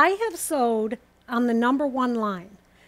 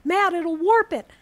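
hammed-up alarm from a nervous quilter; mock panicked quilter; 7 semitones higher than usual. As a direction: imitate a fussy worrier crying out in alarm. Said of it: "some people are freaking out going".

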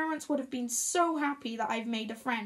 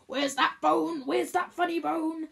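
bright teasing tickle voice; sing-song, playful dad; 3 semitones higher, 3 dB louder than usual. A narrator's reading. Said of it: "suddenly playful".

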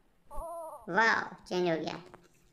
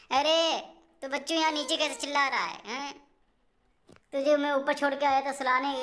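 surprised; 5 semitones higher than usual. Real, not acted. Finds the crying baby downstairs. (हैरानी से, ऊँची आवाज़ में डाँटते हुए)

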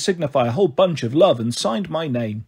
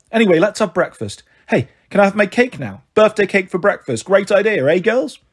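higher-pitched voice of an eager mother; lightly acted, pitched-up enthusiasm; Marigold, suddenly eager; 4 semitones higher than usual. Mother asking her girls for cake at breakfast, eager.

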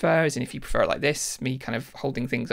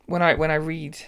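tapping the mic; 4 dB louder than usual. Real, not acted. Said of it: "sorry, I'm tapping on the mic now".

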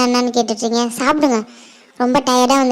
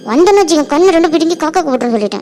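angry threat; 3 semitones higher, faster than usual. Acted. Girl threatening the teasing friend, angry threat. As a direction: warn the pest off in irritation.

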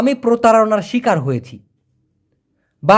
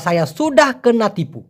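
slow Malay phrase; much slower than usual. Shown as a demonstration. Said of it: "অথবা".

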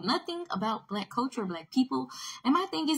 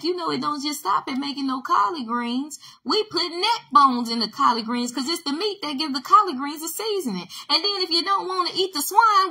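worked-up rant; 5 semitones higher, 4 dB louder than usual. Real, not acted. Heated rant about collard greens.

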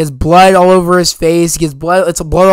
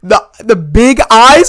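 excited gasp; 5 semitones higher, 4 dB louder than usual. Retold or imitated. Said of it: "I said".

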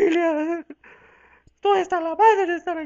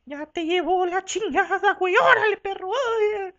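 laughing cheer; 6 semitones higher, 4 dB louder than usual. Acted.

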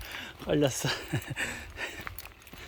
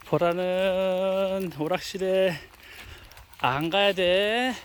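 slow; 3 semitones higher, 4 dB louder, much slower than usual. Real, not acted. Slow loud to dog.

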